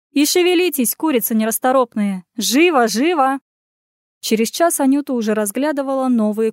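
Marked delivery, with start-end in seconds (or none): 0.1-3.4 bossy order. Acted. Ordering servants around.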